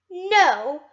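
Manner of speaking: mock British. Telling someone off for pen clicking, loud mock British. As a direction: play a prim Briton telling someone off, British. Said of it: "I went British there for a minute".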